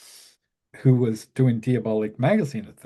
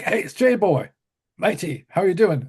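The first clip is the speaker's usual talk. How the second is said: cheery friend on phone; 5 semitones higher than usual. Retold or imitated.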